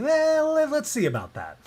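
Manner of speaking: high, loud mock-sceptical "well"; imitating Milgram's knowing dare; smug challenge. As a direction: tease it like a scientist calling a bluff. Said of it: "Stanley Milgram was like".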